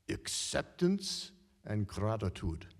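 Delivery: put-on slow Hungarian accent, "acceptance" leaned on. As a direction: calmly lay down "acceptance and gratitude" in a Hungarian accent. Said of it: "in her Hungarian accent".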